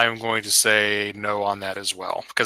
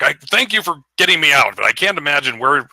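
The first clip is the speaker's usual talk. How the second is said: somewhat raised, irritated complaint; grumbling giant; 3 semitones higher than usual. Acted. Game master voices giant scolding his companion, grumbling. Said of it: "start stomping down the clouds".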